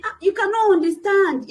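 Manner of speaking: high, loud cry of protest; mock student shouting back; retold outburst. Student snapping at her helper, high and loud. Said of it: "She said".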